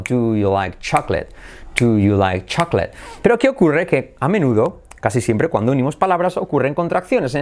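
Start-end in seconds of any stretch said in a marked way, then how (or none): 0.0-2.9 "Do you like chocolate" in a lower, steady beat; rhythmic practice take; rhythmic linking. Shown as a demonstration. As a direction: chant "Do you like CHAK-let" as one linked phrase. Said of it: "practicar esto con ritmo".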